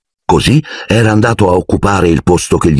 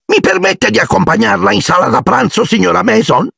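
mock gallant. A narrator's reading. Dudley rehearses offering his arm.

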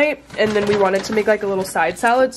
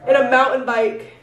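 laughing; 3 semitones higher than usual. Real, not acted. Repeating herself while laughing.

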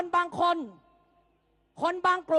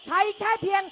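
rallying shout; 3 semitones higher than usual. Real, not acted. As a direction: rouse the crowd with force. Rally climax chant. (ตะโกนปลุกระดมฝูงชน)

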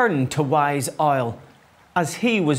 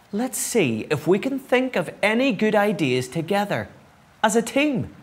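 higher-pitched, encouraging storybook owl; gently rallying the others, pitch raised; hopeful; 7 semitones higher than usual. A narrator's reading. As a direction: lift it with hope. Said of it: "he said hopefully".

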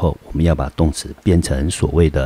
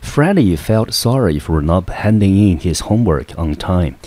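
reading example sentence; 2 semitones higher than usual. Acted. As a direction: clear English sentence read aloud for learners.

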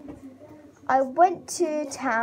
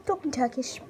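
whispered aside. Real, not acted. Vlogger to viewers about the family, whispered. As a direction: whisper it like a secret.

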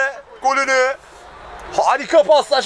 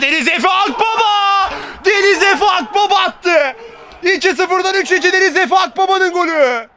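higher, laughing goal call; screaming football commentator; 4 semitones higher than usual. Real, not acted. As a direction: shout it out with a laugh of joy. Goal scored, commentator elated. (gülerek bağıran spiker)

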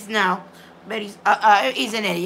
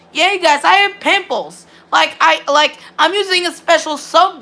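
defensive insistence; 4 semitones higher, 3 dB louder than usual. Real, not acted. Insists to chat he has pimples.

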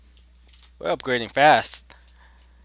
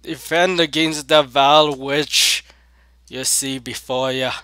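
dramatic proclamation; 5 dB louder than usual. Pretend. King rallying crew against a witch, mock-dramatic. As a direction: declaim it like a hammy king. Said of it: "I'm just making this dramatic".

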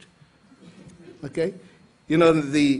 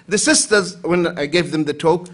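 ordinary talk, nothing marked

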